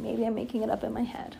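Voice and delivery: whispered aside. Real, not acted. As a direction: drop to a whisper for yourself.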